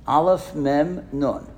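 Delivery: slow, each letter laid out for the crowd; slow spelling out. Shown as a demonstration. Rabbi spelling amen letter by letter for the congregation, slowly. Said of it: "Can anybody figure that out?".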